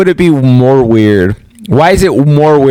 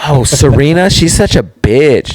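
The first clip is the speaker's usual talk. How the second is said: mock catty gossip; 2 semitones higher than usual. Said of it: "I'm playing my game and I'm like".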